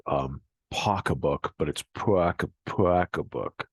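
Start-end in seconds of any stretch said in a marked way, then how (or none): 0.7-1.5 "pocketbook" slowly with jaw forward, "pocka-book"; Boston pocketbook. Shown as a demonstration. Teacher demonstrating Boston "pocketbook" slowly. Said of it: "What you're saying". 2.7-3.7 "pocketbook" as "pwockabook", rounded W after P, slow; Boston pocketbook. Shown as a demonstration. Teacher stressing the rounded Boston "pocketbook". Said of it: "almost like P W O C K".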